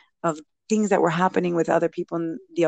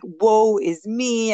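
slow, hammed-up melodramatic lament; mock despair, very slow; mock woe; 4 semitones higher, 4 dB louder, much slower than usual. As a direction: drag it out like a tragic heroine, half-joking. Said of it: "I'm sobbing".

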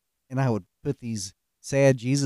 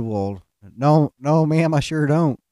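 mock innocent denial; 3 semitones higher, 8 dB louder, slower than usual. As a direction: protest your innocence a bit too hard. Denying the prank to the boss.

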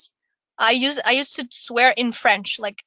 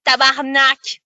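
"tabarnak" in a France French accent; 4 dB louder than usual. Shown as a demonstration. Showing it's not aggressive enough in a French accent. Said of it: "like, a French accent".

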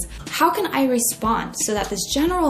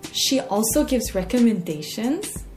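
slow, drawn-out disbelieving question; mock incredulity; slower than usual. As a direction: imitate a disbelieving model, stretching the words. Quotes incredulous model.

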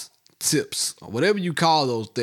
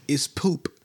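whispered. Real, not acted. Arguing about bathroom smell.

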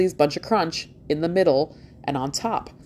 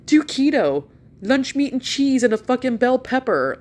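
mocking doctor advice; 8 semitones higher, 4 dB louder than usual.

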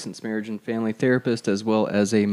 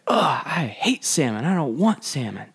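put-on a whispered, higher little-kid whine; whiny child; 5 semitones higher than usual. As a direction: sulk like a five-year-old who hates dinner. Son refusing salmon at dinner.

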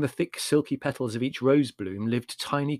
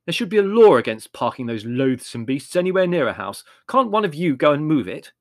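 demanding; 4 semitones higher, 8 dB louder than usual. A narrator's reading. Larry demands.

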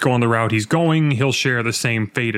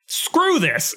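frustrated outburst; 13 semitones higher than usual. Retold or imitated. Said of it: "I'm like".

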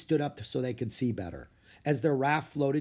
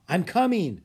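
louder, higher call back; 6 semitones higher, 6 dB louder than usual. Acted. Jack answering Annie from the raft, called out. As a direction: shout back while moving.

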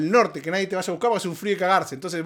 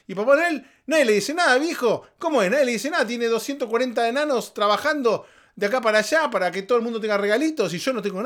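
indignant rant; 4 semitones higher than usual. Real, not acted.

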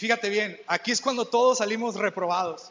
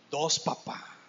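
put-on proud child; 7 semitones lower, 3 dB quieter, slower than usual.

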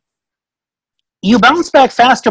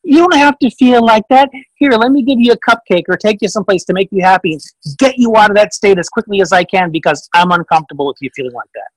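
sugary parent; 2 semitones higher than usual. Retold or imitated. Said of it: "parent consoling a sad child".

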